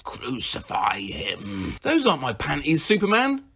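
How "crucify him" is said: low, soft, slow murmur. Retold or imitated. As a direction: murmur it ominously. Sleep-talk quote, low and slow.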